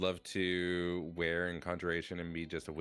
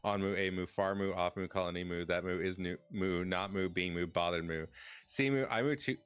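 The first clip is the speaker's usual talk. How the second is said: moo redeem. Pretend. Streamer thanking chat, adding moo after every word. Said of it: "This is the Moo Redeem".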